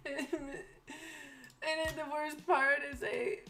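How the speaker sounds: half crying, half laughing; real giggly tearful confession; laughing while choked up; laughing through tears. Real, not acted. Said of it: "super sad".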